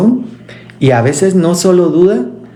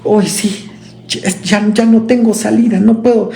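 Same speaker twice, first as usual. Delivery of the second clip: higher-pitched, hurried desperate plea; desperate widow; 5 semitones higher than usual. Retold or imitated. Widow pleading to the Lord, mock desperation. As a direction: cry out that there's no way out. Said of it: "donde ella dijo".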